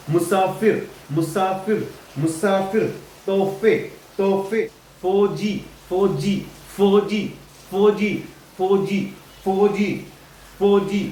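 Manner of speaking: मुसाफिर, तोहफे, फौजी as separate drill words; distinct f in तोहफे; f pronunciation. Shown as a demonstration. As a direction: repeat फौजी carefully with f and j. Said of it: "एफ से आ रहा है".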